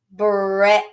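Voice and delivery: Bread with a short eh vowel, said clearly. Shown as a demonstration. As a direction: say Bread with eh, not ee. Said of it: "You hear that short E sound".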